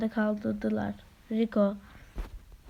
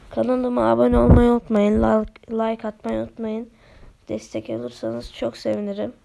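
hoarse voice; 7 dB louder than usual. Real, not acted. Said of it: "sesim boğuk boğuk geliyor".

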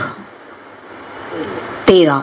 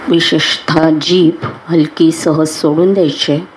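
unhurried meditation guide with long pauses; guided meditation; 4 dB quieter than usual. Acted. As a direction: guide them calmly into relaxation, phrase by phrase.

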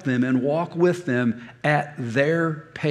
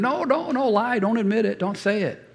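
much higher squeaky devil voice; cartoon devil; 6 semitones higher than usual. Cartoon devil tells him to lie, high and squeaky. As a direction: sneak it like a tiny devil. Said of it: "And the little devil's over here going".

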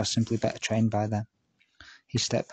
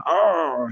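bigger pirate "Arr!" shout, much higher and louder; pirate growl; 6 semitones higher, 6 dB louder than usual. Shown as a demonstration. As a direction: try it again and it's still a pirate's "Arr". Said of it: "No, still sounding like a pirate".

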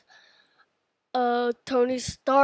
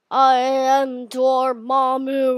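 Dormammu voice; 7 dB louder, much slower than usual. Pretend. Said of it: "remember what Dormammu sounds like".

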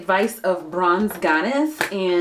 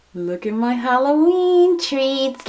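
excited; 6 semitones higher, 5 dB louder, much slower than usual. Real, not acted. Showing off Halloween treats.

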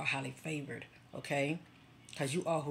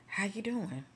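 acted greeting; 6 semitones higher than usual. Acted greeting met with titles.

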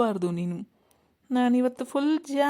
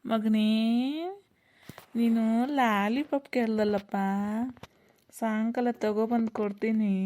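sweet-talking. Acted. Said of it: "ಸುಮ್ನೆ nice ಮಾಡಿ ಮಾತಾಡೋ".

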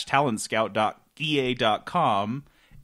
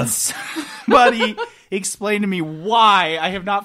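laughing shout; 4 semitones higher than usual. Real, not acted.

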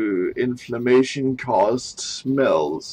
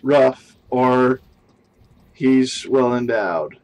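mock British accent; 3 dB louder than usual. Reading a sex article aloud for the stream in mock British accent. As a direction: read it out like a clumsy Brit. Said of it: "in your best British accent".

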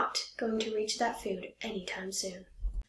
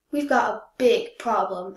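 louder, grumbling complaint; complaining; 5 dB louder than usual. Acted. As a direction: grumble it to the tulip friends. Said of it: "I complained to my friends".

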